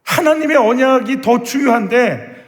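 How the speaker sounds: high-pitched, insistent questioning; frustrated plea to God. Acted. Believer bound by the world questioning the Lord, frustrated pleading. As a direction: press God with one exasperated why after another. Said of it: "그 답답함".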